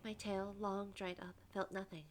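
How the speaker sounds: measured first-person storytelling; story narration. A narrator's reading. Prisoner recounts the torch held near, measured narration. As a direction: narrate it evenly, phrase by phrase. Reads the game's narration aloud.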